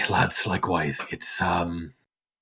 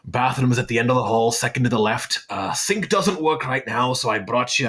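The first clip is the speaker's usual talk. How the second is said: lightly voiced gruff host, rising toward the end; a hint of a kindly old host giving the lads their orders; Brannick's voice.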